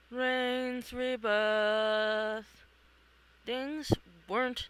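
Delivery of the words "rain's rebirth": very slow, eerie pronouncement; ominous prophecy. Acted. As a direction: intone it like an oracle. Mysterious dream prophecy.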